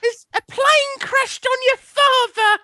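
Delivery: high hammed-up mother voice; fake panicked mum. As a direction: ham up a frantic mum in falsetto. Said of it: "pretend to be your mother".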